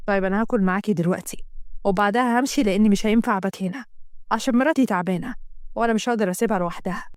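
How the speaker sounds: a hint of an apologetic male lead; matter-of-fact husband. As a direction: explain why you must leave.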